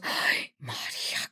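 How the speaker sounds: low breathy whispered "Ay, Maria"; dramatic mom sigh. Retold or imitated. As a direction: sigh it like a dramatic telenovela mother. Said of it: "if your mother goes".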